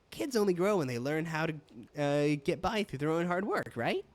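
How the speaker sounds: easygoing keeper with a Scottish lilt; roughly Scottish dialect; amateur Scottish accent. Acted. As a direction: attempt a Scottish brogue. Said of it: "I am just defaulting to Scottish".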